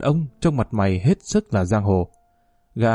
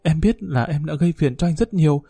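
pleading; 2 semitones higher than usual. Acted. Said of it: "Thu nài nỉ".

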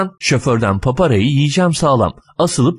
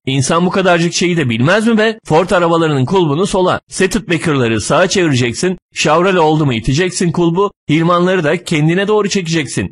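higher-pitched, irritated tirade; angry lecturing; 5 semitones higher than usual. Acted. Driver lists every car make's handle, angry lecturing. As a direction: rattle off the obvious in exasperation. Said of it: "Şoför büsbütün kızıyor".

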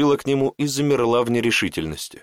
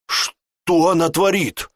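hissed; 8 semitones higher, 3 dB louder, slower than usual. A narrator's reading. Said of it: "прошипел Гант".

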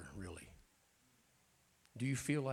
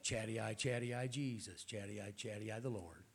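mock tongues. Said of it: "Does tongues mean anything to you".

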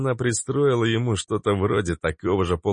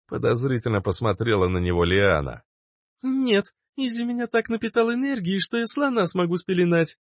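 much higher, light and carefree; high girlish voice. A narrator's reading. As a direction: shrug it off like a young girl. Plaksa voiced high, boasting. (Плакса, высоким девичьим голосом)

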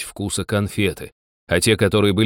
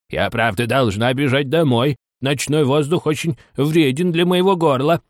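put-on fussy old magpie voice; decrepit magpie; 5 semitones higher than usual. A narrator's reading. Old magpie excusing herself to hurry home, fussily. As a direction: put on an old bird's fretful voice.

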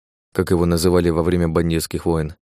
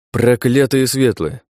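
cursing; 4 semitones higher, slower than usual. Acted. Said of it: "выругался Дум".

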